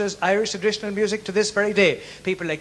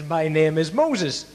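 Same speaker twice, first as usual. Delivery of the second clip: slow parrot; 2 semitones lower, slower than usual. Acted. Parrot answers the burglar.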